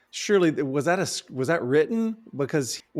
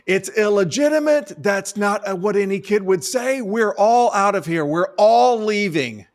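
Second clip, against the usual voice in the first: higher and louder, indignant announcement; mock outrage; 6 semitones higher, 5 dB louder than usual. Moviegoer declares the film over to the audience, loud mock outrage. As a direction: storm out of the theater in fake fury. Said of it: "throw a smoke bomb ... and go".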